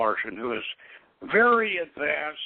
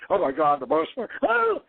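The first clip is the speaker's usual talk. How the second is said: much higher, hammed-up panicky cry; mock panic; 4 semitones higher, 3 dB louder than usual. Ken Kesey's example man panicking at being fired, mock panic. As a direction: imitate a man panicking over losing his job. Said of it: "he's panicking".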